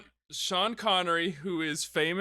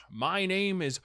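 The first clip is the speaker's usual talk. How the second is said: grand introduction in a mock Scottish accent; hint of theatrical Scottish accent; 3 semitones higher than usual. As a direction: announce the name in a lightly put-on Scottish accent. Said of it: "In, in his Scottish accent".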